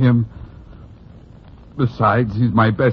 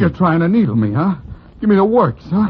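heated, climbing higher; angry accusation; 7 semitones higher, 3 dB louder than usual. Acted. Cecil accuses Broadway of needling him, angry.

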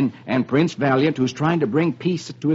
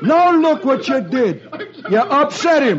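laughing friend; 9 semitones higher than usual. Acted. Friend scolds Beetle, laughing.

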